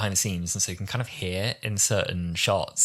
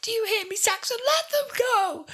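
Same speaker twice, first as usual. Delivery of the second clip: imitating Martha's fury. Martha shouting at the Master down the phone, high impassioned imitation. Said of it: "She sounds so furious and emotional".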